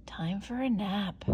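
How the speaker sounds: soft, drowsy inner voice; almost dozing off; sleepy thought. Acted. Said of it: "she thought".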